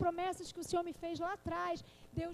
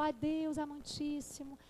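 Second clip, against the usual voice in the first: mock formal prayer; slower than usual. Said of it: "Eu não falo".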